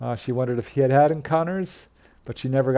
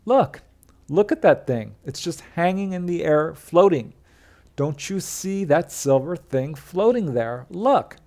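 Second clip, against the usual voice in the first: urging a friend to look at the sky, pitched up; excited insisting; 4 semitones higher than usual. Retold or imitated. Passenger urging driver to look, excited and high. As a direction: voice jumping high on the first and last look. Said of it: "she told him again".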